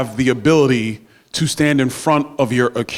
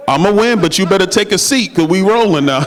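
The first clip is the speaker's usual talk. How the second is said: playful boast; 5 semitones higher than usual. Real, not acted. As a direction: brag at him with a grin. Teasing Gus, playful boast.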